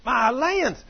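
high, loud astonished cry; retold scream. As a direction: imitate her scream of amazement. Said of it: "and she screamed".

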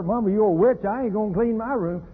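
rebellious daughter mock yell; defiant little girl. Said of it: "by the time that word come out of her".

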